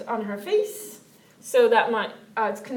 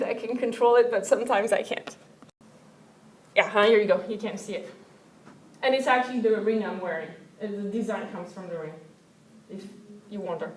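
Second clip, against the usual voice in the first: teary; 3 semitones lower than usual. Real, not acted. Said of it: "excuse me if I get teary".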